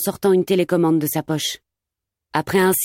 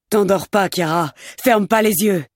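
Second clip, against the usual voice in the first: urgent shouting. Acted. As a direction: shout to keep her awake. Amir shouts to keep her awake.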